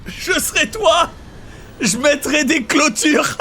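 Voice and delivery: barely holding the laugh in; trying not to laugh. Real, not acted. Repeats joke, laughing.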